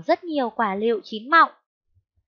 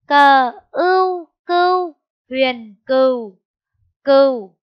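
louder, slow spelling chant; spelling out again; 2 semitones higher, 9 dB louder, slower than usual. Shown as a demonstration. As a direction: stretch each sound loudly for the class. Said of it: "Cô đánh vần lại nhé". (đánh vần lại chậm và rất to)

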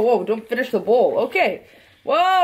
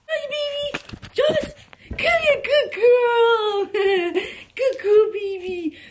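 much higher, squealing with delight; squealing puppy talk; 13 semitones higher than usual. Real, not acted. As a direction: gush over the puppy like she's the cutest thing alive. Excited greeting to the puppy.

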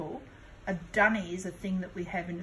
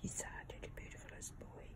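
barely audible unvoiced whisper; faint whispered coo; 18 dB quieter, faster than usual. Real, not acted. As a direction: hush it right into his ear. Whispered to baby.

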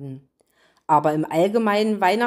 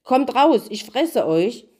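wolf roaring a threat, slow and louder; loud shout; 4 semitones higher, 3 dB louder, slower than usual. Acted. Wolf shouts at Hänsel and Gretel through the door, loud and slow. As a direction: bellow it at the closed door. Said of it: "laut schrie".

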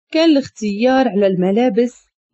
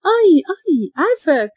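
terrified; 7 semitones higher than usual. A narrator's reading. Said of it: "ركب فيها الرعب".

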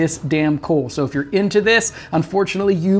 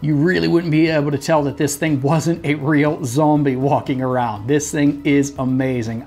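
muffled behind silicone mask; speaking inside latex head; through a face mask; 3 semitones lower than usual. Real, not acted. Seen 3: Masked figure on screen throughout; voice may be voice-over.

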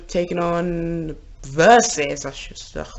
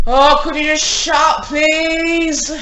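louder and higher, fed up; annoyed shout; 7 semitones higher, 5 dB louder, slower than usual. Real, not acted. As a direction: snap it up at the noisy family. Family noisy upstairs.

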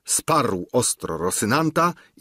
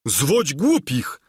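scornful retort; 5 semitones higher, slower than usual. Acted. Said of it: "rzecze Sancho".

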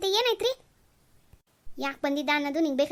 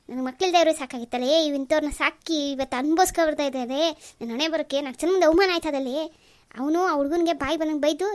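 bitter lament; 3 dB louder than usual. Acted. Father laments angrily.

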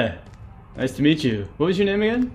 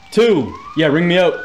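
cheering; 4 semitones higher, 4 dB louder than usual. Real, not acted. Cheering grade.

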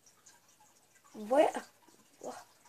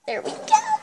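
very high, squeaky voice; squeaky exclamation; 4 dB louder than usual. Pretend. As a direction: squeak it out in falsetto. Squeaky repeat of his own words.

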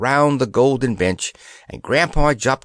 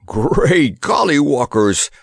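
slow startled gasp, louder; 2 semitones higher, 4 dB louder, slower than usual. A narrator's reading. Old soldier feeling the stairs move, gasping. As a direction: gasp it out in shock. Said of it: "gasped the old soldier".

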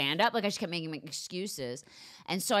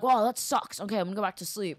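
lightly voiced laid-back dude; a hint of the checked-out husband; mock shrug from a sleepy partner; imitating unbothered husband; 4 semitones higher, 3 dB louder than usual. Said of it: "how good your impression is of him".

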